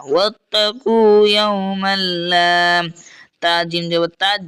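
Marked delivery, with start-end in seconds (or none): 0.1-2.5 ওয়াত্তাকু ইয়াওমাল লা recited slowly and carefully; slow recitation. Shown as a demonstration. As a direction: draw out each syllable of ওয়াত্তাকু. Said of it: "লাম আলি জবর লা". (ধীরে তিলাওয়াতের ভঙ্গিতে)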